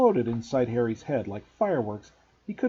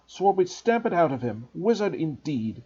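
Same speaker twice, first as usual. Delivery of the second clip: angry uncle; 4 semitones higher than usual. Acted. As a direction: sneer it out in contempt.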